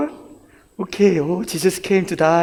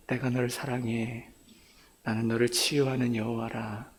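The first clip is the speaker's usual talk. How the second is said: soft, low, solemn reassurance; tender divine voice; 5 semitones lower, 10 dB quieter, much faster than usual. Acted. God telling the young man of love and healing, tender. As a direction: speak it hushed, as a gentle promise. God's words retold in Korean.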